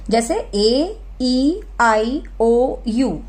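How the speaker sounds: very slow, drawn-out ए, ई, आई, ओ, यू; long vowel sounds. Shown as a demonstration. Teacher drawing out the long vowel sounds. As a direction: stretch each long vowel like the alphabet names. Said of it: "long sounds होती हैं".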